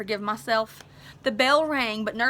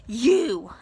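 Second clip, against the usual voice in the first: accusing; 3 dB louder than usual. Acted. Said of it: "I accused".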